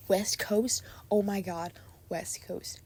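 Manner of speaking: breathy whisper of the title, rising at the end. Shown as a demonstration. Gushing over her favourite song, whispering the title. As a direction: whisper it in awe. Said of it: "Yes, I said that twice".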